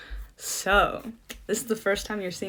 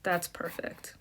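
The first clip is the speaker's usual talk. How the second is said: soft polite thanks; 9 dB quieter than usual. Shown as a demonstration. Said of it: "you should finish by saying".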